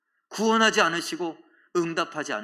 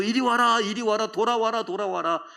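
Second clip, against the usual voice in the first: raised, urgent calling; calling back; 6 semitones higher, 4 dB louder than usual. Acted. God to his straying people, calling them back. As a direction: call them to come back.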